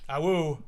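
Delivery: short playful wolf howl. Acted. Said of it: "Keep howling".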